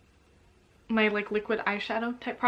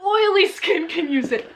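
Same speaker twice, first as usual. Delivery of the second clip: high, slow, hammed-up whine; milk the tragedy; mock despair; 7 semitones higher than usual. Comic complaint about formula.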